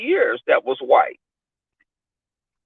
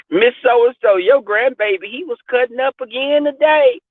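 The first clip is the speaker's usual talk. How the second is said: church mother; 5 semitones higher than usual. Retold or imitated. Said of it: "they say".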